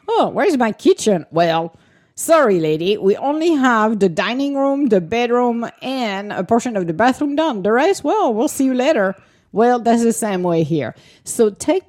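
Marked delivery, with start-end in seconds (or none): 0.1-1.3 mock dismayed buyer. Buyer voiced in house example. 1.3-9.1 higher, breezy brush-off of the buyer; mock cheeky builder. Builder voiced in house example.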